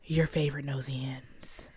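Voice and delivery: breathy whispered aside. Pretend. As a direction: whisper it like a secret. Whispered intro.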